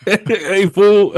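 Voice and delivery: high, loud, laughing "hey fool" call; homie voice. Retold or imitated. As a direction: shout it like a buddy teasing you. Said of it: "my homie was like".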